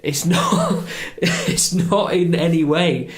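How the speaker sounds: laughing. Real, not acted. Laughing at the idea.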